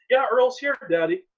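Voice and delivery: imitating a girlfriend calling to her dad; daughter calling back. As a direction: sing out the answer to Daddy.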